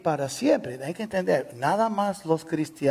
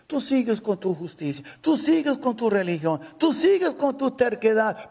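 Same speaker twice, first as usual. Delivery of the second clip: building rebuke; 5 semitones higher than usual. Real, not acted. Pastor warns stubborn listeners, building.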